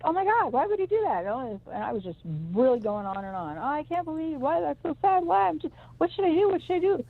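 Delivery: put-on high, distraught wailing over a stranger's child; melting down. In the car, horrified by a vision, distraught high wail. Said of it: "And I melted down".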